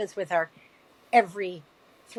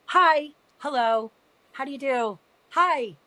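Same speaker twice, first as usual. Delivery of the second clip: higher, louder, slow sing-song hellos to strangers; mom's overly cheery greeting; 6 semitones higher, 4 dB louder, slower than usual. Retold or imitated. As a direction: imitate mom gushing hello at everyone in a waiting room. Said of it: "this is her to everybody".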